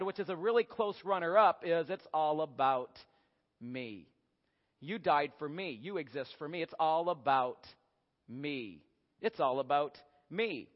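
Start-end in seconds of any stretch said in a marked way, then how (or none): 1.9-10.7 low, soft, self-satisfied purr of speech; smug cat. Acted. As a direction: savour each line quietly and low. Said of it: "So what they say instead".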